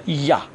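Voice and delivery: یا starting with a y glide. Shown as a demonstration. Teacher showing the jot rule, یا beginning with y. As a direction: say یا with German j as "y".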